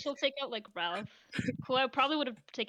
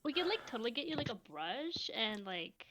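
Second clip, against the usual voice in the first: whisper; 2 semitones lower, 6 dB quieter than usual. Real, not acted. Aside whispered by player.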